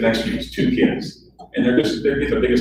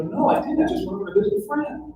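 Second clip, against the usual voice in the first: defensive; 4 dB quieter than usual. Retold or imitated. Defending himself to receptionist.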